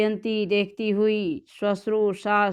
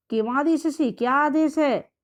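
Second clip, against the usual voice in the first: a sneering, scolding mother-in-law, pitched higher; haughty scolding; 5 semitones higher than usual. Retold or imitated. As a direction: snap the question at her like a proud mother-in-law. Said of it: "ऐठ करके डांटती हुई". (ऐंठकर डांटती हुई सास)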